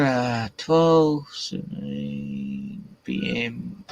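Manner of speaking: reads the time very slowly, dragging it; slow drawn-out reading. Real, not acted. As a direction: stretch every word of the clock reading.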